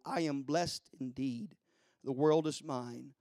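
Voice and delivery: storytelling verse with hushed line endings; poem recitation. Real, not acted.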